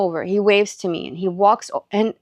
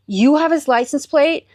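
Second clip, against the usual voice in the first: higher, incredulous rising question; can't believe what you just heard; retold amazement, pitched up at the end; astonished question; 6 semitones higher than usual. Retold astonished reply to stranger.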